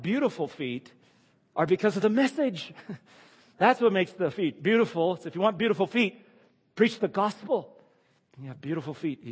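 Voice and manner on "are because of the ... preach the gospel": playful emphasis. Real, not acted. Laughing emphatic punchline.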